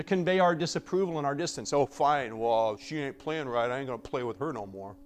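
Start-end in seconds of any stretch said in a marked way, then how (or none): 1.7-5.0 a hint of a pouting first-grader; mock childish sulk; sulky child. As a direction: huff like a kid who quits the game. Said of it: "just like when we were in first grade".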